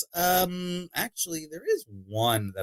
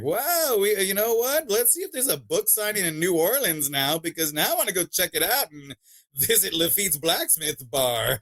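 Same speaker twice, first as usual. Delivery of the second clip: excited idea; 6 semitones higher than usual. Retold or imitated. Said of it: "we're kinda like".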